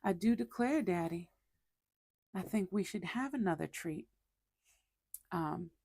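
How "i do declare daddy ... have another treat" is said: put-on Southern belle accent. Kitten's voice begging owner for a treat in a soft Southern belle accent. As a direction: sweet-talk Daddy like a Southern belle asking for treats. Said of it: "we would do little Southern belle".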